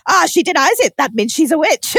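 hammed-up witch-trial certainty; mock triumphant accusation. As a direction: pounce like a witch-hunter sure of proof. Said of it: "It's like".

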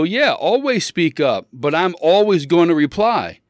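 argumentative, firmly making the point; emphatic comeback. Retold or imitated. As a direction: insist on having the last word. Retells his emphatic comeback to Amy.

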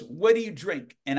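put-on slightly high Southern-accented question; Carl Killingsworth. Southern man asks the page his drink, imitated Southern accent. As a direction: imitate a Southerner asking casually. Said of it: "that's how Carl talked".

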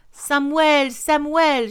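high, loud urgent call; crying out. A narrator's reading. Old woman reaching the farm of Samuel, crying out. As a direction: call the name for help in a French accent. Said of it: "she cried out".

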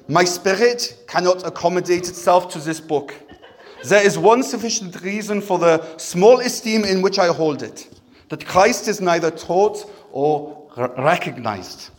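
put-on light German accent; Luther German accent. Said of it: "Let's do a German accent".

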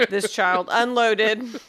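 laughing through the words, slow. Real, not acted. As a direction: chuckle while telling it. Laughs telling funny story.

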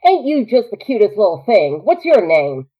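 flirty Southern frontierswoman; generalized Southern accent, playful; Southern drawl. Acted. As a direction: coo it in a North Carolina drawl. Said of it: "might channel a little bit North Carolina".

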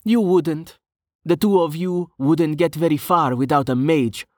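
high-pitched, puffed-up indignation; huffy. A narrator's reading. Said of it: "Brovos puffed".

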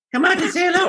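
high Mario calling out; chirpy plumber calling a brother. Pretend.

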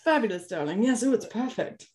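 gushing mock art snob; posh luvvie impression. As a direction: coo over it like a rich socialite. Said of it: "and be like".

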